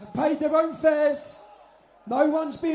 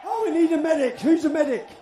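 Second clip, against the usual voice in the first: man down shout. Real, not acted. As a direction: call out for a medic. Calling for medic in crowd.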